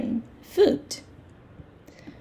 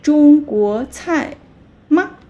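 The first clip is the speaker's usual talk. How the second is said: 吗 lifted high at the end as a question; question rise on 吗; 4 semitones higher, 5 dB louder than usual. Shown as a demonstration. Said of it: "吗 in the end".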